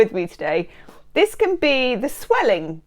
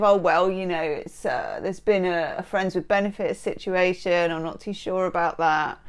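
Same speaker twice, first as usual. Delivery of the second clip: quieter, lower, halting mock uncertainty; imitated hesitancy; 3 semitones lower, 5 dB quieter than usual. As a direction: mimic a noncommittal waverer, trailing down. Imitates a hesitant, noncommittal lover.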